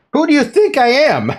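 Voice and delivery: how dare you, thrown back hard; hammed-up offended squawk; indignant outburst. Natsume voiced, offended.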